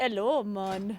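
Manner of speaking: put-on Jamaican accent. Asked on stream whether one actually does accents, demonstrate a put-on Jamaican accent. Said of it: "Do you actually do like a Jamaican accent".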